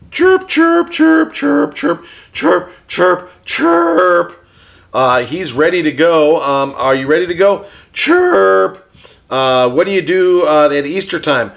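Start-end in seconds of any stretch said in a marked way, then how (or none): 0.1-4.5 high chirpy bird voice; parakeet chatter. Pretend. 7.9-8.9 parakeet chatter. Pretend. Puppet bird answers question.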